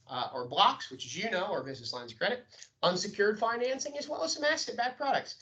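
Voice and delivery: brisk, rehearsed phone pitch; sales rebuttal. Shown as a demonstration. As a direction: rattle off the memorised sales script quickly. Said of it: "You deliver the, the rebuttal for rates".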